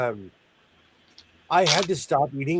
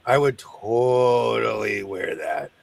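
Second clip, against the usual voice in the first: emphatic shout; 5 semitones lower, slower than usual. Real, not acted. Enthusiastic about fabric.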